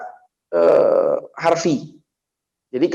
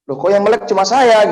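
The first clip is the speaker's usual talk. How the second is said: raised, puzzled "why am I the only one awake"; mock astonishment, pitched up; retold surprise; 7 semitones higher, 4 dB louder than usual. Recalling the sleepy sermon crowd, puzzled and surprised.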